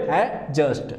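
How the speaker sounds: एडजस्ट said as "a-just"; एडजस्ट with the vowel running straight into J; silent D. Shown as a demonstration. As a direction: drop the D in एडजस्ट. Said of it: "D here is the silent".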